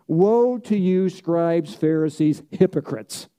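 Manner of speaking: slow, stern woe, each name pressed out; critical rebuke. Retold or imitated. Jesus rebuking the scribes and Pharisees, stern critical tone. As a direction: denounce them slowly and sternly. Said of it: "in a very critical tone".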